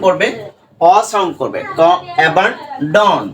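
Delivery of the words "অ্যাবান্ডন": অ্যাবান্ডন drawn out very slowly, ডন with short অ; slow demo word. Shown as a demonstration. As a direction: stretch অ্যাবান্ডন slowly for learners. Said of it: "এই ডন এখানে ওটা কি sound করে".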